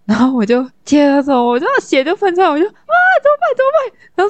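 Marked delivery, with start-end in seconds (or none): 2.7-4.0 high, panicky mock cry of alarm; frantic retold panic; panicked. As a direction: replay the moment of panic, pitch way up. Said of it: "就焦虑".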